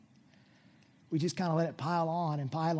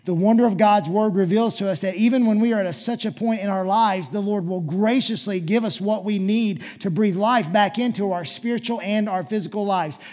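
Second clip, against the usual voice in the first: louder, driving sermon delivery; fervent preaching; 4 semitones higher, 11 dB louder than usual. Acted. Pastor telling congregation of God's renewing grace, fervent preaching. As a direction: preach it out with force.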